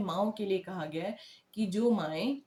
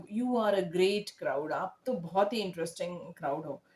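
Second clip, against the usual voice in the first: forced sarcastic praise; 3 semitones lower than usual. Shown as a demonstration. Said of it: "तो बोल रहा है".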